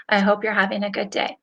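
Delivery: level, unenthusiastic monotone. Shown as a demonstration. Coach repeating her text message example, in a monotone. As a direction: keep every word on one even note. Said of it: "like, monotone".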